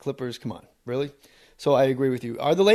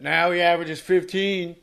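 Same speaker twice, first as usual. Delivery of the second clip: Al Pacino impression; 6 semitones higher, 4 dB louder than usual. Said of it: "as Al Pacino said".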